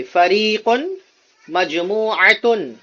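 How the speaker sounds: slow, careful Arabic model reading; Arabic teacher modelling the word for repetition; read-along model. Shown as a demonstration. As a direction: say it clearly for the class to repeat. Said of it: "میرے ساتھ پڑھیے".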